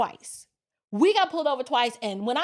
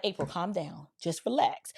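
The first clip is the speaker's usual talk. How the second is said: softer, lower retold reassurance; calming; 7 semitones lower, 5 dB quieter than usual. Friend to panicking back-seat passenger, calming. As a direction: settle a panicking friend down quietly. Friend telling her to calm down.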